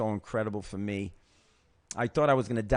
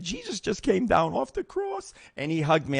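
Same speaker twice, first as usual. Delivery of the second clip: awed; 8 semitones higher than usual. Retold or imitated. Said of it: "I said".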